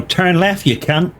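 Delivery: lightly voiced rough rocker insult; a hint of a gruff rock star; a rock singer's voice. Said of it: "a rock singer's voice".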